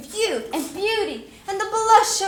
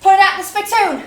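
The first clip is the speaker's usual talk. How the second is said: ordering loudly; 2 semitones higher, 6 dB louder than usual. Acted. Barking an order at the maid.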